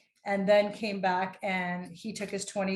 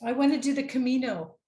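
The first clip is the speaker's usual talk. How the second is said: louder and higher, eager; excited wish; 4 semitones higher, 4 dB louder, faster than usual. Real, not acted. Guest sharing her bucket-list dream, excited and louder.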